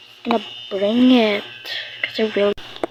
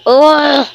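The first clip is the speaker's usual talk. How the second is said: angry groan; 3 semitones higher, 7 dB louder than usual. Pretend.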